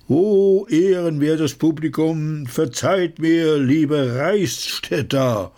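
hoch und langsam verkündet, Hand aufs Herz; höhere Ausruferstimme. Acted. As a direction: schmeichelnd das Volk anrufen. Narr redet das Publikum an. (hohe, gedehnte Narrenrede)

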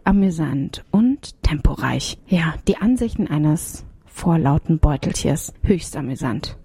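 slow, hushed whisper read; whispered promo. Acted. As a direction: whisper the review quotes slowly. (langsames Flüstern)

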